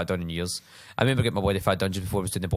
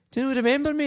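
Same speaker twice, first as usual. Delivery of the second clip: friendly question. Retold or imitated. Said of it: "And he went".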